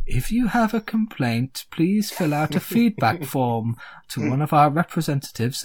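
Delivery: a hint of a polite customer-service tree; lightly voiced tree reading a service script; talking tree. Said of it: "And the tree says".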